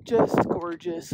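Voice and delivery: high, loud, drawn-out wonder; real awe, voice soaring; awestruck. Real, not acted. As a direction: marvel at a stunning view, stretching the words. Overawed by the view at the top.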